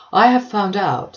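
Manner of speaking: self-important Collins, puffed up with news; lightly voiced pompous parson. Mr Collins announces his discovery.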